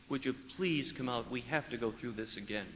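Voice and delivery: softly pleading with the bride to come out; coaxing plea. Retold or imitated. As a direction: coax her gently through the door. Priest pleads softly at door.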